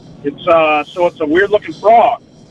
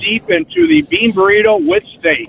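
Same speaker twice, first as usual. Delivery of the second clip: mouth full; 3 semitones higher than usual. Real, not acted. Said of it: "What are you eating now".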